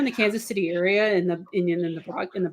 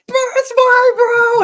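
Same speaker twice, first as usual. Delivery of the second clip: slow, much higher and louder, voice straining; full-throat stadium shout; 9 dB louder, much slower than usual. Retold or imitated. Fan at the Super Bowl parade, straining shout. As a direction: belt it out at a parade. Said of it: "I just blew my voice out doing that".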